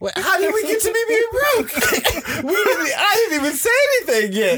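very high-pitched incredulous squeal through laughter; laughing indignation. Retold or imitated. Acted indignant reply to blunt child.

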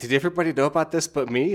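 retold incredulous outburst; mock disbelief. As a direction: act out being the last to find out. Acts out character finding out last.

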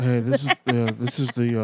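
lightly voiced sheriff on the phone; a hint of a bored deputy; cop voice. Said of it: "I like his cop voice".

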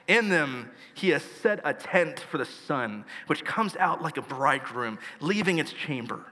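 measured pulpit reading; scripture reading. Acted. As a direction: read each phrase of the Bible with weight. Continues reading Psalm nineteen.

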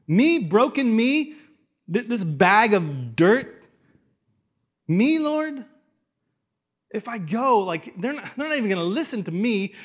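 high, loud disbelieving protest; incredulous Moses. Acted. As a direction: plead your unworthiness, voice cracking up.

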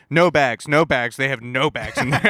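loudly calling out no bags; a stranger at the door warning him loudly. Retold or imitated. Retelling a woman loudly warning there are no bags.

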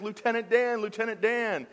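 high, loud mock Forrest Gump shout; Forrest Gump calling out. Forrest Gump from the movie calling his lieutenant, imitated high and loud. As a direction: call out like Forrest from the water. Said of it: "He's like".

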